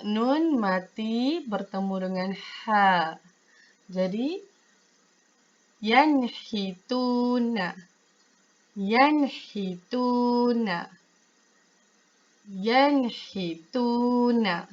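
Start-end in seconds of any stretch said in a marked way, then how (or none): 5.8-14.7 yanhituna said slowly, nun clear, no hum; careful recitation; clear reading, no dengung. Shown as a demonstration. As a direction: repeat slowly and cleanly. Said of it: "Baca dia dengan jelas, terang".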